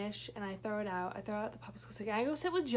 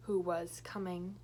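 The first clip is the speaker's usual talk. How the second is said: whispered; 4 semitones lower, 3 dB quieter, slower than usual. Retold or imitated. Narrating the creep approaching.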